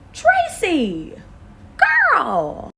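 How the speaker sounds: loud high wailing cry of a name; mock outrage. Real, not acted. Calling out the trainer, loud high mock wail.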